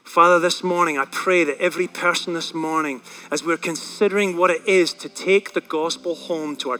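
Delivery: earnest congregational prayer; measured pastoral closing prayer. Real, not acted. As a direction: pray sincerely and steadily for everyone listening. Leads closing prayer over music.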